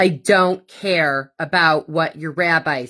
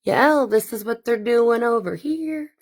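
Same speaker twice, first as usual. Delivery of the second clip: goon reporting in; 5 semitones higher than usual. Retold or imitated. A goon reporting back to base in a mock henchman voice. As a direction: report it like a spy calling base. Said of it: "Reporting back to base".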